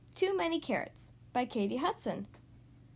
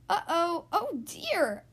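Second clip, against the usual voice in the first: higher, worried little cry; lightly acted dismay, stretched out; mild mock alarm; 4 semitones higher, 4 dB louder, much slower than usual. Animals tumbling down the hill, mild alarm.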